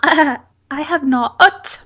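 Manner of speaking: slow, put-on British accent; bad London accent. Co-host answering about the film, bad London accent. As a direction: attempt London English, badly. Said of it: "I'm really trying".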